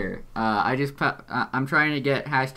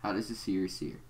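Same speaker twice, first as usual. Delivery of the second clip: low, measured, quiet villain voice; deep Doc Scratch voice; 3 semitones lower, 8 dB quieter than usual. Acted. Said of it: "a really deep voice".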